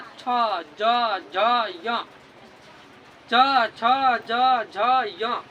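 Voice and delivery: loud separate च छ ज झ य, tongue to the roof; palatal letter demo. Shown as a demonstration. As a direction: say each letter out loudly, one by one. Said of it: "आप बोल कर देखो च". (तालु से वर्ण बोलकर दिखाना)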